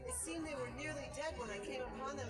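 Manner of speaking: a woman spooked by her own dream; young woman, unsettled. Acted. Female character recounting dream.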